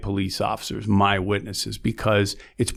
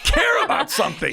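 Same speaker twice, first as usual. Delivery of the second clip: laughing through the words, pitched up; 14 semitones higher than usual. Real, not acted. Prosecutor urging people to care, laughing. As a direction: break into a laugh as you urge it.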